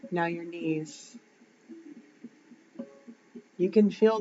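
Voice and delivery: unhurried visualisation voice, lingering on the words; guided meditation. Shown as a demonstration. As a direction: guide them gently through the imagery, pausing between phrases. Leads a grounding visualisation.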